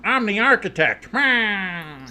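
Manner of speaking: high, raspy wrestling promo; Seth Rollins voice. Acted. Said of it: "does kinda sound like Seth Rollins".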